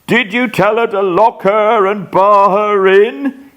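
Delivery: high, fretful question; nervous need for reassurance; anxious pleading. Acted. Raving man questioning wife.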